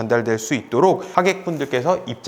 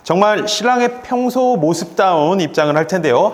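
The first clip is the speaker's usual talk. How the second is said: stage introduction. Shown as a demonstration. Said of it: "한번 해보도록 하겠습니다".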